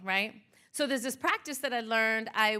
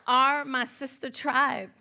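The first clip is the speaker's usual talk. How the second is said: poem recitation. Acted. Speaker to audience honoring her sister tribe, spoken-word poem. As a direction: perform it as a spoken-word tribute.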